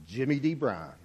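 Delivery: low, soft mumble with eyes down; mumbled. A narrator's reading. Dirty man mumbling his name to the host, softly. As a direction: mumble your name, ashamed to look up. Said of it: "I mumbled without looking up".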